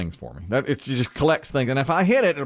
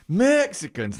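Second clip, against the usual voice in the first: slow, raised mock Southern accent; 6 semitones higher, slower than usual. Savoring the example once more, Southern accent. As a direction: draw the word out in a Southern accent. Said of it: "with a Southern accent".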